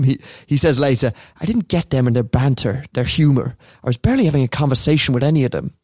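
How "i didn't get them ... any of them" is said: a lightly cartoonish Irish accent, quoting Roy Keane; a mild put-on Cork-ish Irish voice. Podcast host quoting Roy Keane in a light Irish accent. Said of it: "sorry about the accent again".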